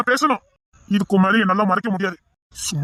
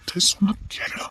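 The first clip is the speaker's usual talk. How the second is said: urgent whisper; 5 dB quieter than usual. Acted. Friend holds back drunk man.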